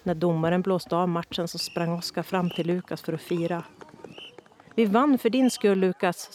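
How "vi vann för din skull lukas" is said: high, loud and glad; happy. A narrator's reading. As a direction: share the win joyfully. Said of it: "sa Oskar glatt".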